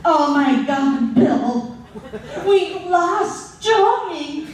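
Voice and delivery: a touch of panic, drawn out slowly; mom's mock panic. Mom counting heads in car, mock panic. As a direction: play the frantic mom missing a kid. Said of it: "my mom was taking a head count".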